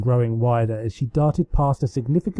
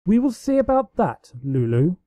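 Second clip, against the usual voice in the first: high, teasing promise, holding back a laugh; a lightly voiced sisterly threat; playful vow; 5 semitones higher than usual. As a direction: answer the challenge with a grin. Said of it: "Celestia vowed".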